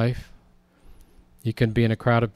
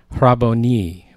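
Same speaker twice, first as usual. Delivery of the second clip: "Rabboni," drawn out slowly, a bit louder; mild retold scream; 5 dB louder, slower than usual. Mary Magdalene recognizing Jesus, mild retold scream. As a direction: call out "Rabboni," slowly, half-shouted. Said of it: "and screamed".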